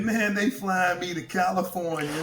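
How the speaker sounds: imitating an excited man; retold excitement. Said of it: "he was so excited".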